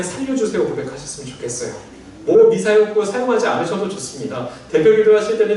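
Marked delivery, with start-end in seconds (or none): 0.0-0.6 raised, bare plea for rescue; simple plea. Shown as a demonstration. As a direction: lift it up as a plain cry to God. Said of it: "기도하실 때 그냥".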